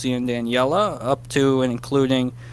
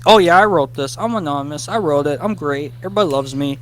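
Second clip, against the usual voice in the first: smug boaster; 3 semitones higher, faster than usual. Retold or imitated. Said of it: "someone random goes".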